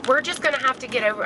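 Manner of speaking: talking while the car bounces; on a bumpy road. Real, not acted. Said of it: "I'm sorry, it's so bumpy".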